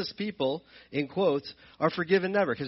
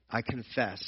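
I confess said much softer and lower, humbly admitted; soft confession; 6 semitones lower, 7 dB quieter than usual. Retold or imitated. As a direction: murmur I confess as a humble admission. Someone returning to apologize.

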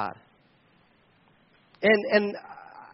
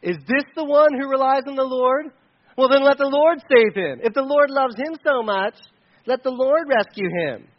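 raised, mildly sneering taunt; 4 semitones higher, 4 dB louder than usual. Acted. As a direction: jeer like mocking onlookers. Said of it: "They sneer and shake their heads".

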